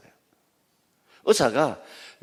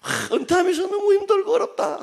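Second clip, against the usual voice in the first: a retiree complaining. Retold or imitated. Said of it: "어떤 분이 그러더라고요".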